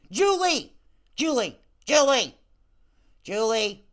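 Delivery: loud repeated call of a name, falling each time; hollering a name across the room to get her attention. Acted. Host calling a viewer by name, loud call.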